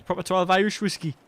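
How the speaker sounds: put-on a weak stab at an Irish accent; failed Irish accent. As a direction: try Irish and barely land it. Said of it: "That just wasn't an accent at all".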